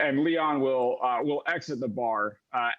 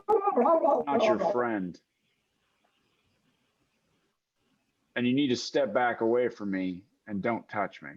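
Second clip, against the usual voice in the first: cold warning; 3 semitones lower than usual. Acted. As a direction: warn him off coldly. Leon rebuffs player.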